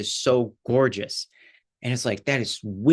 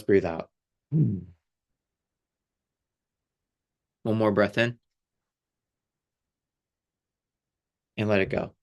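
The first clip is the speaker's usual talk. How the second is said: guided breath. Real, not acted. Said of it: "Let's all take a breath together".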